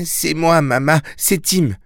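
lightly voiced young boy, gentle. Boy voice reassuring mother. (voix de jeune garçon, douce)

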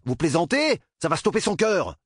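high, urgent protest; alarmed outburst. A narrator's reading. Doctor fears the boy's heart will stop, alarmed. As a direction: exclaim in rising panic.

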